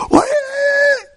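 put-on very high, cut-off yell at the kids; exasperated yell. Parent yelling at fighting kids, exasperated. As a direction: shout over the noise, way up high.

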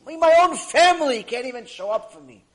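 loud bitter lament; anguished outburst. Acted. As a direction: wail that even family left. Man laments abandonment.

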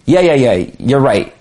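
brushing someone off, you're right said flat and falling; dismissive yeah yeah. Shown as a demonstration. Explaining a phrase to an audience, dismissive brush-off. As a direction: shrug it off, wanting the talk over. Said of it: "what they're really saying is".

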